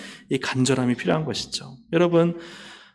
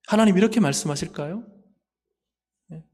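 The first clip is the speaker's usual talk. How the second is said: ordinary talk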